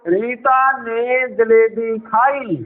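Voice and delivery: slow, steady, in one flow; smooth even reading. Shown as a demonstration. Teacher shows reading the sentence in one flow. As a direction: read the whole line in one rhythm. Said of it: "मन में पढ़ के पूरा बोलो".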